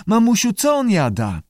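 high squawky mimic of a child; screechy lizard voice. A narrator's reading. Lizard parrots a child asking mum, screechy. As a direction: squeak the question up high. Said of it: "z krzeczącym głosem".

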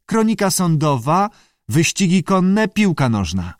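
high creature voice listing items; squawky salamander. A narrator's reading. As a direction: reel off a list in a high squawk. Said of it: "zaskrzeczała". (skrzekliwe wyliczanie salamandry)

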